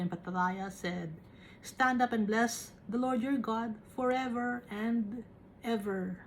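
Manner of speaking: slow, solemn Bible reading; scripture reading. Acted. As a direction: read the verses slowly and reverently. Preacher reads scripture aloud.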